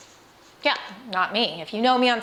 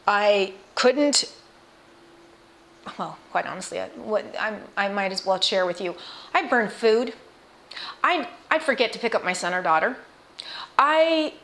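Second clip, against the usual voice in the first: tearing up. Real, not acted. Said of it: "I'm tearing up".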